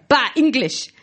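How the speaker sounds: hammed-up Argentinian soldier sneer; mock Argentinian accent. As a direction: spit it out like a scornful Argentinian guard, mock accent. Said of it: "I told you I was good at accents".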